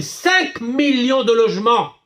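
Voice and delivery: "cinq millions de logements" pitched high, hammered out; outraged emphasis. Real, not acted. Outrage at housing money lost.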